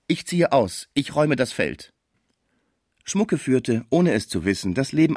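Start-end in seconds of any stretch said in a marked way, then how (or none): 0.1-1.9 higher, mildly dismayed outburst; entsetzt. A narrator's reading. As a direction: give up in contained dismay. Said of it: "rief Schmucke entsetzt". (verhalten entsetzt)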